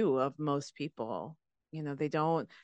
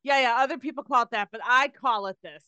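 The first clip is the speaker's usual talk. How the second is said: dismissive; 6 semitones higher, faster than usual. Retold or imitated.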